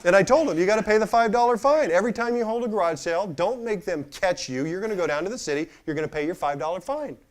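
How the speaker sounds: loud, high, laughing as he tells it; can't hold back the laugh; laughing through it. Real, not acted. Speaker laughs recounting his advice to the employee, loud.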